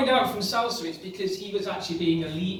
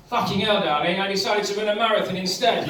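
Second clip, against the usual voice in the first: imitating the partner; 4 dB louder, faster than usual. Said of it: "four hours later".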